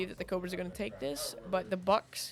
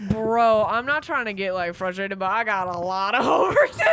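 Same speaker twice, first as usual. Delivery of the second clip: loud whiny lament; half-crying frustrated shout; 2 semitones higher, 10 dB louder than usual. Real, not acted. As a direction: complain loudly on the edge of tears. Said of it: "Someone, someone seems sad".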